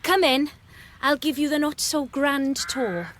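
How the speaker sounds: a loud, bright call to come in; calling welcome. Acted. Christine welcoming Philip into the new house, loud call. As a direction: call your guest inside.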